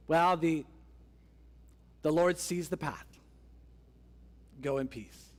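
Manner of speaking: hesitant, noncommittal pronouncement with long pauses; stall, then trail down into a vague blessing; deliberately ambiguous. Acted. Levite answering the Danites, deliberately vague. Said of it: "He speaks in the most ambiguous way possible".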